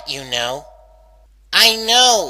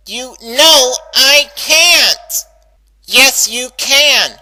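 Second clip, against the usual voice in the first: heated argument; 6 dB louder, slower than usual. Acted. Arguing with her own brain.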